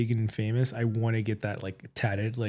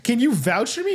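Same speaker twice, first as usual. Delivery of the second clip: mock pleading. Pleading with silent friend.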